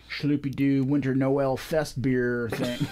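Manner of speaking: slow, mock European accent on the made-up beer name; joking European accent. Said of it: "You said that with the proper accent".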